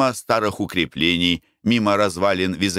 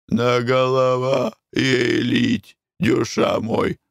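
put-on slow, broken Armenian accent; 4 semitones higher, much slower than usual. Karapet asks with water.

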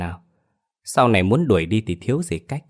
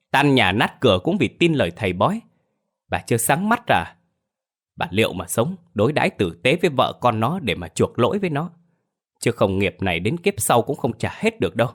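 stern rebuke; 3 semitones higher than usual. Acted. Husband rebukes wife for trusting fortune tellers, stern. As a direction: scold her about the fortune teller.

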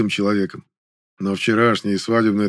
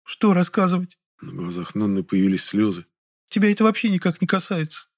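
tearful girl, lightly voiced; 7 semitones higher than usual. A narrator's reading. Nonna tearful and defensive.

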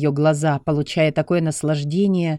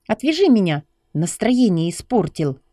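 put-on irritated young woman; 4 semitones higher than usual. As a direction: snap at him to untie you. Lucy demands release.

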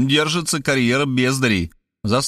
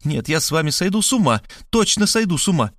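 higher, wailing a little; lamenting; 7 semitones higher than usual. A narrator's reading. Markhaleva clutching her heart, mild lamenting higher voice. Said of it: "запричитала".

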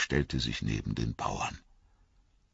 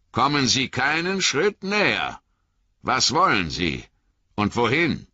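much higher, loud warning; stern challenge; 9 semitones higher, 4 dB louder than usual. Acted. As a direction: stand up to the rider. Sam confronts the rider.

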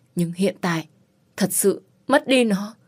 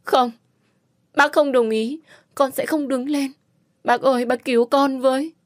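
begging; 6 semitones higher than usual. Acted. Kneeling, refusing to stand.

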